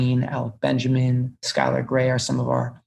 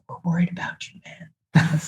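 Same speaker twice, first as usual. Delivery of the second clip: parents' concern; 4 semitones higher than usual. Retold or imitated. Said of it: "were just like".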